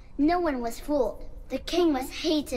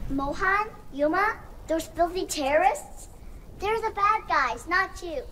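put-on higher, gentle young girl's voice; tender daughter's farewell; 4 semitones higher than usual. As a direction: comfort her father one last time. Dying daughter speaks to father.

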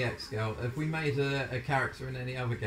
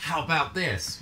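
mimicking character; 3 semitones higher, slower than usual. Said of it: "something stupid like".

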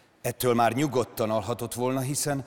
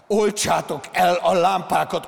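much higher and louder roar; full roar; 7 semitones higher, 7 dB louder than usual. Acted. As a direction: bellow it at the armoured cars. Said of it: "ordította". (teli torokból ordítva)

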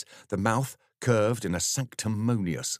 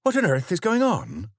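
higher, louder nosy exclamation; excited neighbour, much higher and louder; excited Dorothy; 7 dB louder than usual. Acted. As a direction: demand the gossip, eager and loud. Dorothy demands to know.

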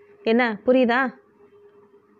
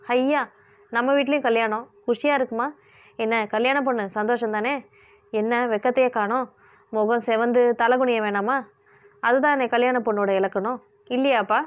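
teasing. Acted. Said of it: "கேலி செய்தாள் ரஞ்சிதா".

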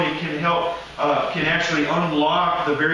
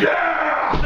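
jittery excited shout, much higher; mock buzz; 10 semitones higher than usual. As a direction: whoop like after four coffees. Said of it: "I'm like".

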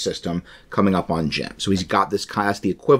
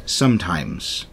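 pirate voice; 4 semitones lower, 5 dB quieter than usual. Acted. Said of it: "I'm gonna do a pirate voice".

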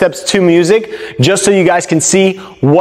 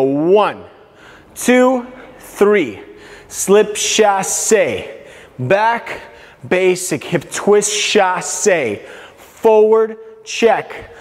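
calling out steps; much slower than usual. Shown as a demonstration. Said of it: "I'm gonna call out the steps as well".

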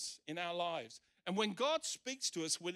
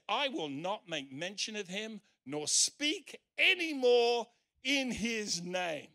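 loud, slow, emphatic quote; defiant refusal; 5 semitones higher, 7 dB louder, slower than usual. Retold or imitated. Preacher quoting Jeremiah's refusal to speak for God, defiant. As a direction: declare it louder and slower, word by word. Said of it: "here's what he said".

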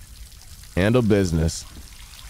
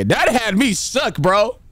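shaken; 12 semitones higher, slower than usual. Real, not acted. Recovering from a scare.

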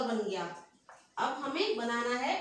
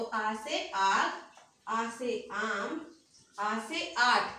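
slow drill; 3 semitones lower, much slower than usual. Shown as a demonstration. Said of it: "मेरे साथ दोहराएंगे".

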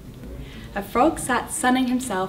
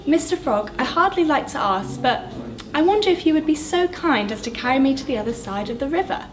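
higher, fast, overly polite scorpion; 5 semitones higher than usual. Acted. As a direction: fawn over the frog as a sly scorpion. Scorpion asks politely for help.

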